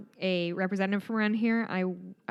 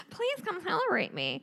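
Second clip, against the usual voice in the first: mock self-pity; 9 semitones higher than usual.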